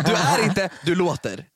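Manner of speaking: "är" lifted against "låter"; contrastive stress. Real, not acted. Co-host teasing the host about seeming intellectual, contrastive stress. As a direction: laughingly set "är" against "låter". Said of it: "betona, låter".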